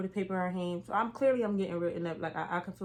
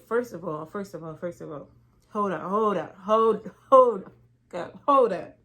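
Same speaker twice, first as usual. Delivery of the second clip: loud hold up; 8 dB louder than usual. Retold or imitated. Cutting off the boss loudly.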